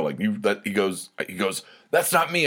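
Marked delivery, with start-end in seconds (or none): 1.9-2.5 much higher, mock-defensive protest; retold protesting denial. Drunk friend hearing his own recording, mock indignant denial. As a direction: imitate a friend indignantly denying it.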